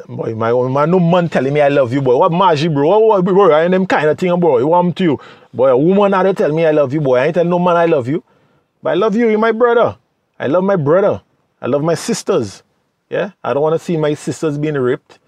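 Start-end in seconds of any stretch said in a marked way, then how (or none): 0.1-10.0 louder, scoffing macho bro; macho man mocking. A tough guy brushing off a man's I love you, loud scoff.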